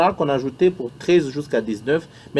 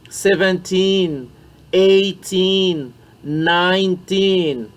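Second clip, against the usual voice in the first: counting drill to nineteen; much slower than usual. Shown as a demonstration. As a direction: count slowly, stretching the teens. (compter ensemble jusqu'à dix-neuf)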